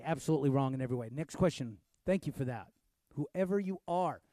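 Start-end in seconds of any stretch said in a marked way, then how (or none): 0.0-1.1 fast, tossed-off restatement; quick repeat. Real, not acted. Fast repeat. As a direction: pastor rattling it off again quickly.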